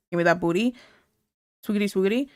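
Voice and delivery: low, put-on seductive voice; mock sexy talk. Streamer mimics a woman's crude come-on, low and hammed-up. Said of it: "their woman talks sexual at 'em".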